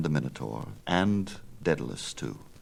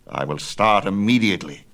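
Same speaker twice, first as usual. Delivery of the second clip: louder eager cry; excited cry; 3 semitones higher, 6 dB louder than usual. Acted. Father agrees eagerly, a louder cry. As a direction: announce it with excitement. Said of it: "cried Daedalus".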